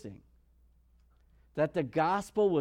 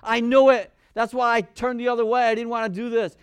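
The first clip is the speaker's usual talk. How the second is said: angry Jonah; 5 semitones higher, 5 dB louder than usual. Retold or imitated. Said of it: "He was like".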